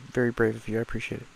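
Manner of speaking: usual speaking voice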